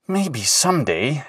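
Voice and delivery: hopeful. Acted. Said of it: "he thought hopefully".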